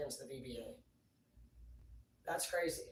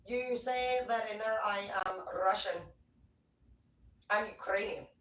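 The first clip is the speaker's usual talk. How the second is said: boss quoted; 5 semitones higher, 6 dB louder than usual. Retold or imitated. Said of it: "She's like".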